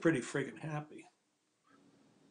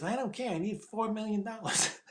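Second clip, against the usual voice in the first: petulant demand; 6 semitones higher than usual. Retold or imitated. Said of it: "He goes".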